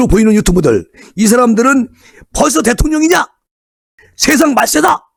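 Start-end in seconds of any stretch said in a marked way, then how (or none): 2.3-5.0 high-pitched scornful jeer; imitating critics jeering, pitched high; mock outrage. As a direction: sneer at them like a rival YouTuber. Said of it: "비판을 하고".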